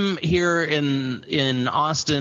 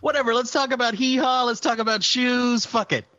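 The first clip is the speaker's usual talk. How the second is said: bored don't-care voice; 9 semitones higher than usual. Retold or imitated. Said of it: "So it's just like".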